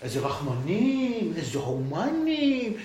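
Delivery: slow, biting mock praise; sarcastic. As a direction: draw out the irony, slowly. Sarcasm about the Nazis' mercy. (בסרקזם איטי ועוקצני)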